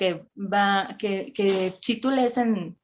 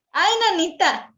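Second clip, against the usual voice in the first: loud, much higher startled cry; shocked exclamation; 9 semitones higher, 4 dB louder than usual. Retold or imitated. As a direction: react as if seeing your own angry face. Shocked at her face in mirror. (¡Ay, nanita! exclamado con sorpresa)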